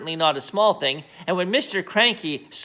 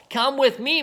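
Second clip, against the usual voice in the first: yelled; 8 semitones higher than usual. Acted. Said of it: "Mister Cranky yelled".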